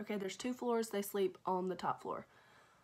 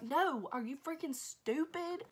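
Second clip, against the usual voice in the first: slow, emphatic mock reprimand; mildly exasperated dad, higher and drawn out; retold scolding; 5 semitones higher, slower than usual. Dad to teenage daughter about leaving the kids, scolding.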